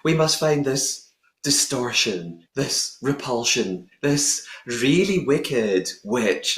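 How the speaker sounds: slow, grand speech voice; Madame Morrible voice. Retold or imitated. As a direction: announce it slowly and grandly. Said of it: "Madame Morrible is doing her speech".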